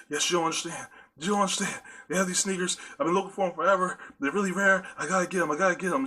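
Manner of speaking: frantic pleading. Retold or imitated. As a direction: rush it like an addict who can't wait. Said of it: "I'm like".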